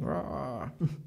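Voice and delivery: a quick, half-hearted roar; imitated screaming roar. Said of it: "he was screaming".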